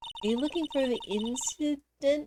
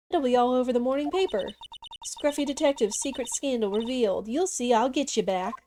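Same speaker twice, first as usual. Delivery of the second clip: put-on southern accent. Reporter arguing with the cop, southern accent. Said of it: "I might recognize that southern accent".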